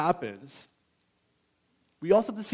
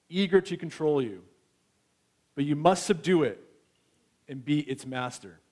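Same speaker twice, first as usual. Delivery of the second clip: God speaking. Acted. Preacher voicing God questioning Cain, lightly voiced. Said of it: "now God's speaking".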